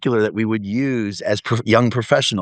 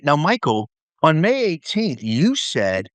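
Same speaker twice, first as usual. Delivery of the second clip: higher-pitched mock reminder; Martha Shaden; 6 semitones higher, slower than usual. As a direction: imitate a mentor reading out the record. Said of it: "she'll go in her notebook and say".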